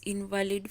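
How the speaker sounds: "invalid" with the stress on IN; stress on first syllable. Shown as a demonstration. Teacher reading an exam sentence aloud, "invalid" stressed on IN. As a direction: lean on the opening IN of "invalid". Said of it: "we're going to stress the first syllable".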